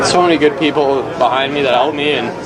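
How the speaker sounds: emotional, catching breath midword; fighting back tears, words catching; choked up. Real, not acted. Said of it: "I'm sorry, I'm emotional".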